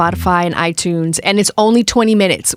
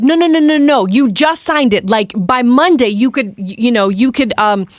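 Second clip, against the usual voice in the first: pushy salesman pitch; 5 semitones higher than usual. Retold or imitated. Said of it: "He's like".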